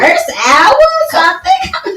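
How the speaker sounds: high excited squeal; thrilled, shouting high. Real, not acted. Excited about view counts.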